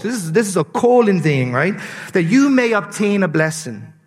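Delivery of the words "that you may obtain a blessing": solemn Bible reading; scripture reading. Acted. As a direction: read the passage with weight. Reads scripture aloud.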